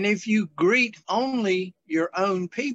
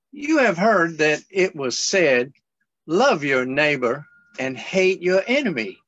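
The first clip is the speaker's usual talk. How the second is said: measured Bible reading; scripture reading; 2 semitones lower than usual. Acted. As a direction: read the passage out to the group. S1 reads scripture aloud.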